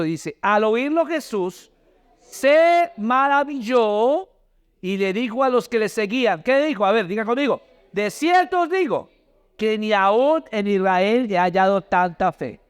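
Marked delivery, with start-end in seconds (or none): 0.4-6.4 very slow, stretched scripture reading; emphatic read-aloud. Real, not acted. Preacher leading the congregation in the verse, emphatic slow reading. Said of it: "Lea conmigo fuerte el versículo". 7.9-12.6 scripture read-aloud. Real, not acted. Preacher saying "diga conmigo" to congregation, deliberate scripture reading.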